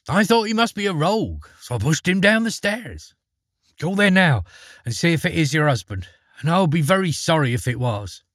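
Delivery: put-on a sincere boy explaining; earnest young lad. Eric explains himself.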